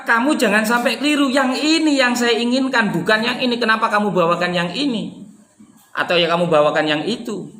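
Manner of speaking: firm, insistent correction; emphatic insistence. Shown as a demonstration. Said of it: "memberikan penekanan".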